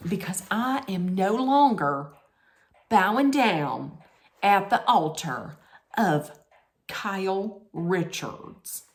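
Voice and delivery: put-on second go at a Southern accent; measured Southern accent, phrase by phrase. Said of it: "That's not that bad".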